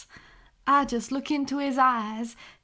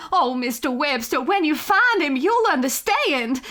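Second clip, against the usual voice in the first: gushing; 4 semitones higher, 4 dB louder than usual. Acted. Gushing about her beloved cat.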